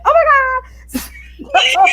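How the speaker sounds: high, loud squeal, word by word; mock fangirl squeal. Acting starstruck in a professional setting, mock fangirl squeal. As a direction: imitate an over-the-top starstruck scream. Mimics expected fan reaction at work.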